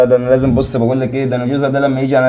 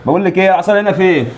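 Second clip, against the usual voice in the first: higher, rising into a heated demand; a husband working himself up to fight, heated; worked up; 6 semitones higher than usual. Acted. Husband getting worked up, wants stick.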